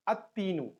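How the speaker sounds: "at-tinu" with the lam silent, t doubled; lam dropped. Shown as a demonstration. Teacher shows learners the sun letter rule, "at-tinu" without l. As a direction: join the a straight onto a held t in "at-tinu". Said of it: "lam will not be pronounced".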